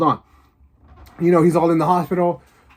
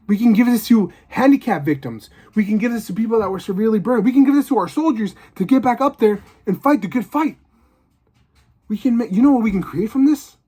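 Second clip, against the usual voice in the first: higher, rising eager scientist; excited pitch; 6 semitones higher than usual. Retold or imitated. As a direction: sell the wonder of it. Scientist pitching Venom's potential.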